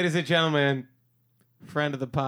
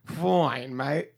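mock Australian accent. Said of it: "You sound Australian".

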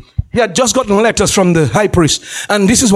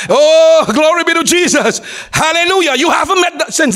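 higher-pitched burst of praise; exultant preaching; 5 semitones higher than usual. Real, not acted. Preacher praising Jesus before the saints, exultant. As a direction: proclaim it joyfully to the congregation.

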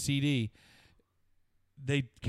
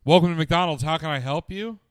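empleada de autoservicio; 4 semitones higher, 5 dB louder than usual. Retold or imitated. Retells worker after silence.

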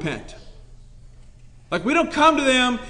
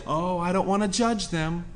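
mock timid excuse; 5 semitones lower, 8 dB quieter than usual.

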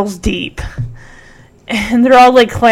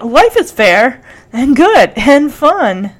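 Zach Morris moment; 3 semitones higher, 3 dB louder than usual. Retold or imitated. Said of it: "he does a Zach Morris".

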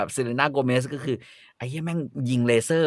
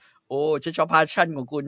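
very slow, sugary praise; French chef praising the host, very slow; 3 semitones higher, much slower than usual. Retold or imitated. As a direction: stretch out the compliment sweetly. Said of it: "เชฟฝรั่งเศส".

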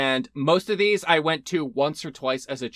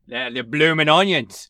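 louder, more committed Australian accent; passable Australian accent; 6 dB louder than usual. Shown as a demonstration. Proving the accent to the doubting co-host, Australian accent. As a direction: redo it as a convincing Australian. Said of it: "It's hard to do an Australian accent".

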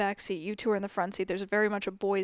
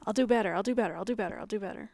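groveling promise; much faster than usual. Retold or imitated. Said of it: "like, a puppy".

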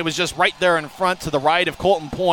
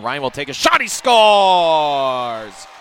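excited; 5 dB louder, much slower than usual. Real, not acted. Insurance goal call.

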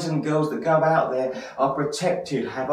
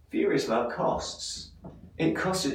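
hushed weight; 6 dB quieter than usual. Real, not acted. Sermon turns to sober cost.

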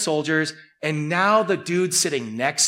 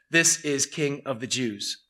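mocking; 3 semitones lower, 4 dB quieter, slower than usual. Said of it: "This was a mockery".

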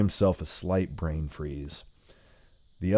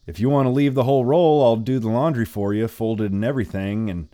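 put-on old lady voice; 4 semitones higher, 5 dB louder, faster than usual.

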